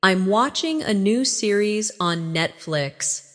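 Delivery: slightly slowed for learners to repeat; slowly. Shown as a demonstration. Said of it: "Say it slowly".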